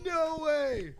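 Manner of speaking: high, loud laughing disbelief; excited laughing. Real, not acted. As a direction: laugh it out, amazed. Still reacting to the win.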